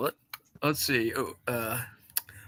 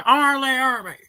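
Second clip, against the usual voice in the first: R. Lee Ermey impression; 3 semitones higher, 3 dB louder than usual. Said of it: "my impression of him".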